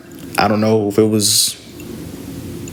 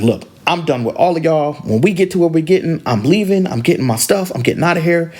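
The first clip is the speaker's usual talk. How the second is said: mildly angry, raised-pitch announcement; pissed off; 5 semitones higher than usual. Retold or imitated. Fed-up girl telling her family she's done, mildly angry. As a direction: imitate a fed-up girl declaring she's leaving. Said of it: "the girl got pissed off".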